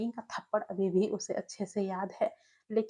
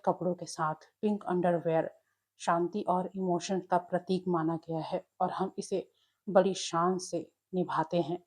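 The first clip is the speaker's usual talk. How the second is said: lower, solemn elder's voice; grave elder; 3 semitones lower than usual. Acted. Lan Qiren solemnly explains the family tradition to Wing, grave and lower. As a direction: speak like a serious family elder. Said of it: "गंभीरता से अपना सिर हिलाया और बोला".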